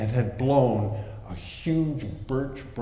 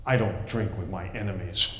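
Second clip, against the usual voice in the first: cold refusal; 6 semitones lower than usual. Acted. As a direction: shut him down coldly. Klaus refuses coldly.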